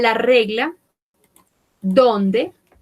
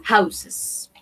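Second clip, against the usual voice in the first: we say houses, slow and deliberate; teacher slowly modelling houses; slow model. Shown as a demonstration. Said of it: "we say".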